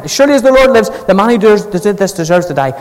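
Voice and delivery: king vowing judgment in anger, then calming; angry oath. Retold or imitated. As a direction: swear it in anger, then let it drop. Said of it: "David burned with anger against the man".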